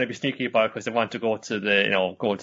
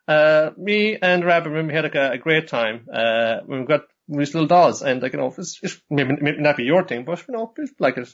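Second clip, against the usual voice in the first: lightly voiced Nodoka; 4 semitones higher than usual. Voicing Nodoka explaining.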